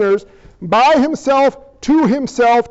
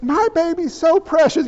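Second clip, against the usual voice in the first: mock doting parent; 5 semitones higher than usual. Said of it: "you're like".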